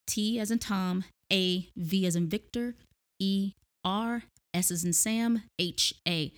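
letters with "as in" words; spelling it out. Shown as a demonstration. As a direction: spell the name carefully. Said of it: "I'ma spell it for you here".

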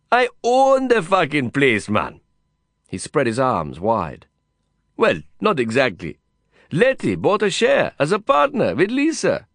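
put-on high-pitched Indian-accented boasting; exuberant Indian cowboy. Cowboy friend telling of his stable share, exuberant and high. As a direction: boast it high, then concede. Voices Vikram in the dialogue.

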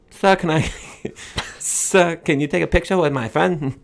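imitated Asian accent, breaking into laughs. Stranger asking for a picture at a party, imitated Asian accent. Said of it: "if I did the accent".

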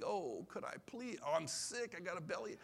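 mock begging; lightly voiced kid pleading sick; pleading child. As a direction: imitate a child trying to get out of it. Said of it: "I used to beg".

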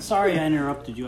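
loud laughing apology. Real, not acted. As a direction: giggle through the sorry. Mock apology while laughing.

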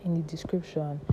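breathless after a panic attack; talking short of breath. Real, not acted. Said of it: "I'm sorry I'm talking like this. I'm out of breath".

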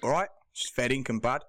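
put-on Aussie greeting; mock Australian test phrase; Australian accent. Shown as a demonstration. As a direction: demonstrate Australian for someone to copy. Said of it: "Let's test you".

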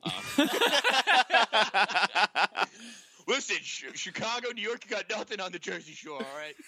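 high, laughing mock Irish accent; hammed-up Irish brogue, calling out to rival cities; brash Irish accent challenging Chicago and New York. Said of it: "You both have a decent Irish accent".

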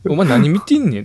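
mock-menacing schoolyard challenge; retold snarl. Friend mimics a classmate picking a fight in the hallway, mock menacing. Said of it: "とか言って".

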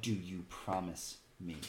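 slow, low, softened question; hushed in-character appeal; whispered plea. Acted. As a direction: ask it privately and earnestly, taking your time. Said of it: "She is whispering to you".

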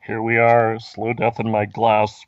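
slow, hollow voice from a glass; talking into a glass. Pretend. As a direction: drag it out into the glass. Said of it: "If I talk into this glass".

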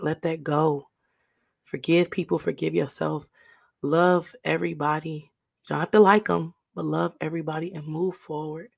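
hoarse, raspy throat. Real, not acted. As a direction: speak through a raspy voice. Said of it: "I hope my raspy voice".

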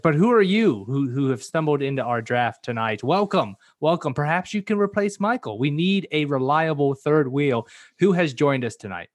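theatrical host welcoming a mystery guest; mock game-show host. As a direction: greet the newcomer like a showman. Mock formal welcome to stranger.

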